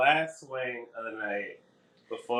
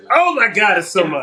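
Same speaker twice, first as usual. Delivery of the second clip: high, loud sudden alarm; shocked shriek; 9 semitones higher, 10 dB louder than usual. Real, not acted. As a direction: blurt it out in panic. Hot sauce pours out fast.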